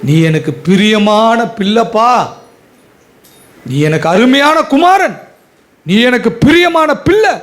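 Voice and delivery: fervent plea building to a high cry; impassioned divine plea. Acted. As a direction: pour out a father's longing, climbing. Preacher voices God to prodigal son.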